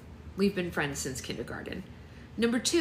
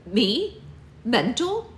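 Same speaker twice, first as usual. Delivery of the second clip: high, loud indignant question; shocked she'd be called mental; indignant disbelief; 6 semitones higher, 5 dB louder, much slower than usual. Acted. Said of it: "I responded".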